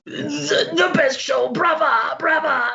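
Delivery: put-on high, strained old-man cheering; departing pirate spirit. Pirate's spirit praises the singer.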